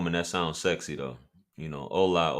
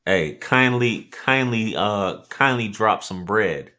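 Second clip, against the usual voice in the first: playful fake British accent, drawn out; 3 semitones higher, 4 dB louder, slower than usual. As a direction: put on a hammed-up British accent to ask for money. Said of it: "Do your British accent".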